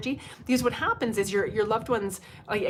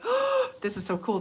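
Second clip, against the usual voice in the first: much higher, gasping with delight; thrilled gasp; 11 semitones higher than usual. Retold or imitated. Alone at the movie set in Elbow Falls, gushing high and excited. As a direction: squeal it like a starstruck fan.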